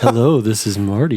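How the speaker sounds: teasing imitation of a radio intro; Love Lines voice. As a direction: lightly mimic a smooth radio host. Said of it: "the Love Lines voice or something".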